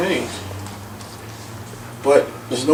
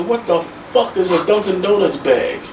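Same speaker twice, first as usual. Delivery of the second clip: raised, slow incredulous yell; retold yell at doctor; 6 semitones higher than usual. Patient yelling at his doctor, slow and raised. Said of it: "I yelled at the doctor".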